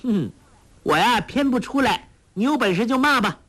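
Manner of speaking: put-on a girl daring the old man to curse; cheeky, sing-song defiance; teasing laugh in voice. A narrator's reading. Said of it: "笑道".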